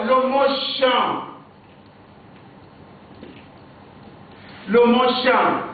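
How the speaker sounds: champ said with nasal an, p and s silent; nasal vowel. Shown as a demonstration. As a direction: sound champ through the nose. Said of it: "on prononce les lettres ici à travers le nez".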